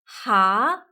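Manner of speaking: ha rising like a question; asking ha. Shown as a demonstration. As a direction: ask ha with an upward lift. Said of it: "similar to asking".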